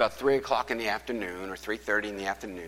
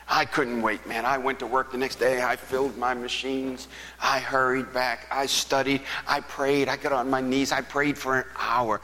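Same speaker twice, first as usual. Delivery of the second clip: eager; 5 semitones higher, 4 dB louder than usual. Real, not acted. Eager rush of retold actions.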